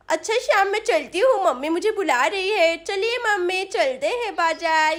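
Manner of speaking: lightly voiced child, excited to go out; eager little girl. Sonam tells Shyam she is off to market with mummy, eager child voice. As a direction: play an eager small daughter, lightly babyish.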